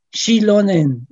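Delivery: "Shilonen" stressed on the antepenult, SHI-lo-nen; stress on first syllable. Shown as a demonstration. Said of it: "el acento en la antepenúltima".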